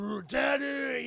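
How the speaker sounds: put-on high, loud, drawn-out child's call; excited little daughter. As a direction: squeal for daddy, slowly. Daughter running to her dad.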